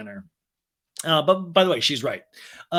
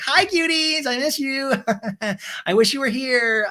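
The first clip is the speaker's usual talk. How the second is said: much higher, squealy voice; bubbly Sheena impression; 10 semitones higher than usual. Sheena greets friends on FaceTime, high bubbly squeal.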